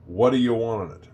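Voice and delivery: "What do you want on it" run together as "whaddaya wan-on-it"; sloppy speech. Shown as a demonstration. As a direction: demonstrate "What do you want on it" as one slurred chunk. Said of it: "let's listen to that again".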